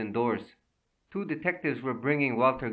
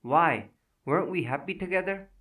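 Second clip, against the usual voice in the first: pleading; 6 semitones higher than usual. Acted. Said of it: "he pleaded".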